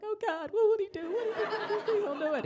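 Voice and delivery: high, laughing mock panic; begging him not to do the pose, half laughing; panicked plea. Retelling her own panicked plea.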